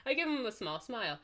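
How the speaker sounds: giggly, wobbling narration; laughing while reading. Real, not acted. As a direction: read on through suppressed laughter. Laughing while reading tearful scene.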